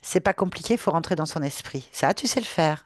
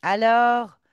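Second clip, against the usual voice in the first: high, loud vengeful ghost; seething shrieking spirit; 7 semitones higher, 4 dB louder than usual. Acted. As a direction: spit it out like a wronged spirit. Ghost confronts her desecrator.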